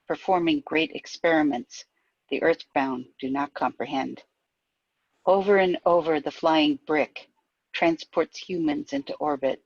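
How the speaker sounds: measured verse with falling line ends; poetry reading. Acted. Poet reading an Apollo launch poem aloud, measured recital. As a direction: recite evenly, pausing between lines. Reads poem part Endeavor.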